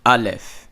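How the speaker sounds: Aleph said slowly as AH-lef, falling at the end; Hebrew letter name. Shown as a demonstration. Teacher modelling Aleph for students, clear and slow. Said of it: "Notice how I'm saying it".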